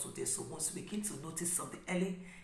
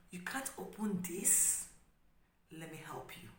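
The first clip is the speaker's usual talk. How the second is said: gentle modeling. Shown as a demonstration. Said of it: "Simply just say".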